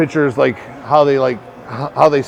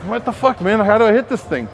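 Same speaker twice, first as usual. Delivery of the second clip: frustrated batter; 6 semitones higher than usual. Retold or imitated. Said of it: "I'm like".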